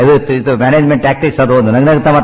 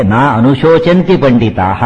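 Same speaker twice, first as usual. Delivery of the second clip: slow, measured Sanskrit recitation; verse recitation; slower than usual. Shown as a demonstration. Teacher quoting Krishna's first words to listeners, slow recitation. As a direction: draw out each syllable of the verse.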